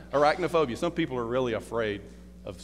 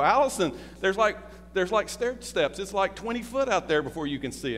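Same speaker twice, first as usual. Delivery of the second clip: coaxing; 6 semitones higher than usual. Retold or imitated. Coaxing wife at canyon edge.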